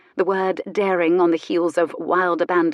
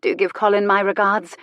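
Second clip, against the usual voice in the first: sugary and ironic; sweetly mocking; sweet irony; 2 semitones higher, 4 dB louder than usual. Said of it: "she said with sweet irony".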